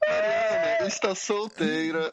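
high squealing laugh through the words; laughing shout. Real, not acted. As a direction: tease her with a shrieking laugh. Teasing shout about a friend. (gritando entre risadas)

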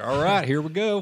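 high, cartoonish pizza guy call; exaggerated cartoon intonation. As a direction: pitch it up like a cartoon character. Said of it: "he'd be like".

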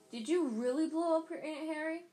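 put-on loud, high, incredulous boy; Ron's voice. Ron asks Harry about blowing up his aunt, loud and eager. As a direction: blurt it out loud and high, thrilled by the scandal. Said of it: "Wait, no, that's not Ron".

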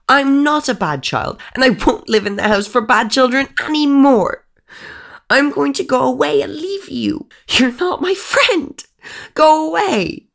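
put-on a small girl shouting her friend away. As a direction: scream it at the ghost in defiance. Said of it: "Ava shouted".

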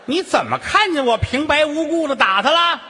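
high, loud indignant retort; mother-in-law snapping back at the wife; indignant quarrel. Acted. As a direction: throw the question back in a huff.

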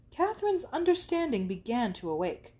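normal talking voice

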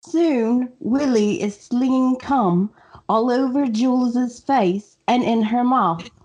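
attempted English accent; careful imitation of a friend's English accent; Laura's English accent. Shown as a demonstration. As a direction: read the line in a put-on English accent. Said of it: "I'm gonna try to do Laura's accent".

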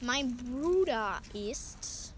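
normal talking voice

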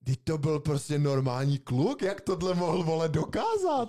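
otázka stoupající k vysokému užaslému konci; nevěřícný úžas. Real, not acted. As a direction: ptej se v úžasu, hlas ti vyletí nahoru. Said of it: "tak si říkám". (užaslé nechápání)

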